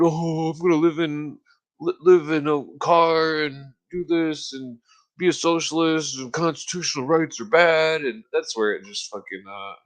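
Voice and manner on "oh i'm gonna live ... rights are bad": mocking imitation. Mocks friend's new socialist talk.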